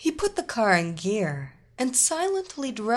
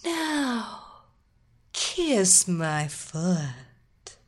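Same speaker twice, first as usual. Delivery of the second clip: slow command; much slower than usual. Acted. Queen orders slowly.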